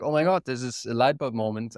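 ordinary talk

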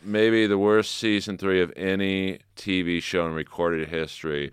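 wrestling promo hype voice; booming wrestler boasts. Pretend. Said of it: "Do a wrestling promo for it".

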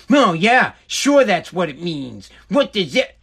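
slow, disbelieving sarcasm; mock sarcastic wife. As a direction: drag out "sure" like she doesn't buy it. Mocking wife's sarcasm.

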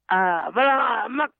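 guttural Klingon imitation; harsh made-up Klingon syllables. Shown as a demonstration. Caller imitates the Klingon language over the phone, guttural Klingon. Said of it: "the new Klingon is like".

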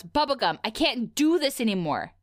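mock-enraged shout, held back; enraged retold shout. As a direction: half-shout it, retelling someone who's fed up. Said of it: "clearly enraged, stands up and he shouts".

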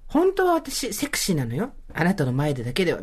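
mock sexy confession. Acts coy private confession to a partner.

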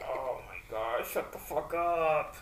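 whispered, irritated aside; mock whisper. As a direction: hiss it under your breath, fed up. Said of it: "I'm like".

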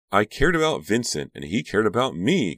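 high, loud anguished insistence; distraught high-pitched protest; crying out. A narrator's reading. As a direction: cry it out, desperate to be believed. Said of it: "Karina cried".

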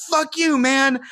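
snapped high curse at a stranger; retold curse. Comic retelling of cursing out a stranger, high snap. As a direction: fling it at him, high and sharp.

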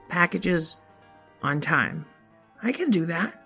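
put-on kid voice. Child voice.

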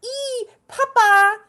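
high, slow, drawn-out yelps; imitating a slow-motion stunt fall, high; mock falling cries. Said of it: "And they're like".

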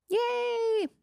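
high-pitched little yay; celebratory cheer. Real, not acted. Cheering a listener's dream school news, high celebratory squeal.

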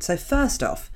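normal talking voice

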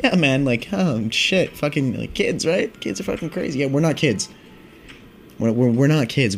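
high, stammering, flustered mumble; nervous rambling. Retold or imitated. Teen stoner answering the cop, high nervous stammer. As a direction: babble nervously to cover it up. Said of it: "I was probably more like".

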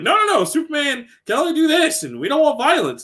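high-pitched protesting executive; mock objection. DC vetoing the Superman game, high mock protest. Acting out publisher's objection to developers.

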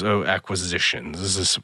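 lightly imitated English-accented officer; Croy. Croy sneers at a self-styled acquisitions man, English accent. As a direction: put on an English accent, looking down on someone. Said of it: "in his English accent".

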